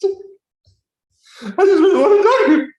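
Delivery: high-pitched fake crying, breaking into a squeal; hammed-up blubbering plea; mock crying. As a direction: pretend to cry, climbing into a very high wail. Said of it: "they get to really high pitch".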